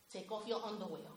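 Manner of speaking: low, very soft voice; hushed, eerie murmur. Retold or imitated. A disturbed mother murmurs to her son, low and very soft. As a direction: murmur it like a secret spell.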